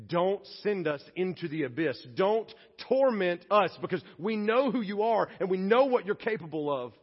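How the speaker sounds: begging. Acted. Demons begging Jesus to spare them, mounting plea. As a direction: plead with growing force. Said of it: "And they beg".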